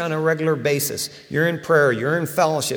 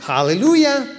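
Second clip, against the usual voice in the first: joyful exclamation; 9 semitones higher, 5 dB louder than usual. Real, not acted. Exclaiming his pride in it.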